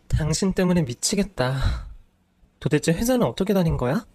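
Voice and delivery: high, sharp, exasperated rant; furious wife. Acted. Wife ranting at husband who quit again, furious. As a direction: let the frustration spill over.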